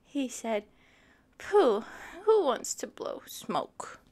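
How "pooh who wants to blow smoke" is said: sulky dismissive. Acted. Elephant sulks.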